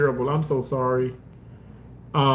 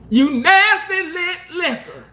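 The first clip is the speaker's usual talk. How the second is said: laughing mock insult; 10 semitones higher than usual.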